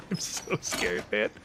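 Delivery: breathy frightened whisper; scared whisper. Real, not acted. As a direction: whisper it so he won't hear you. Hiding from enemy in game.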